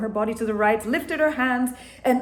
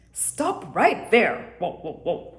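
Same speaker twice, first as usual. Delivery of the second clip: yelled; slower than usual. Acted. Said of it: "yelled the Chinese rooster".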